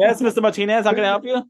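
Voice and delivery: high, sweet polite student; mock polite. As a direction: put on a polite act. Pretend answering professor.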